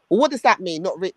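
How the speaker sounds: imitated Jamaican accent. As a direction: challenge him in imitated Jamaican. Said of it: "this is the white man talking to him, you know, in the Jamaican thing".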